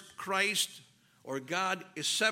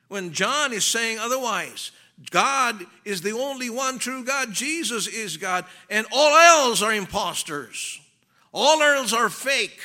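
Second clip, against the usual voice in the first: louder, raised preaching voice building to a punch; forceful preaching; 5 semitones higher, 10 dB louder than usual. Real, not acted. Preacher warning church against false gods, forceful and rising. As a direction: preach it hard, driving home each claim. Preacher hammers his point.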